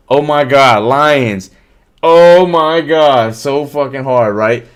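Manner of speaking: loud, drawn-out mock amazement; sarcastic loud oh my God; sarcastic awe. Real, not acted. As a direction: fake being impressed to mock it. Mocking the Eagles' easy schedule.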